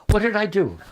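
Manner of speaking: rising worry, first ask; distressed girl. Retold or imitated. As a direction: ask it like the snubbed girl, anxious. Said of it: "a girl came in from lunch crying".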